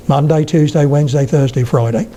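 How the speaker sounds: Suffolk weekdays opening towards "day"; halfway from Suffolk towards Australian; Suffolk, mouth wider. Shown as a demonstration. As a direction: open the Suffolk vowels a little wider. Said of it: "with my mouth getting wider and wider and wider".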